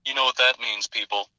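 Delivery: lightly voiced Nicolas Cage reading the weather; Nicolas Cage weather report. Weatherman reading the forecast as a lightly voiced Nicolas Cage. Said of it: "Nicolas Cage with the zinger".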